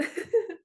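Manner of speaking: a quick, high, light laugh that falls away; bright giggle, releasing tension; high burst of laughter. Real, not acted. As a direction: laugh the heavy mood off. High laugh after heavy rant.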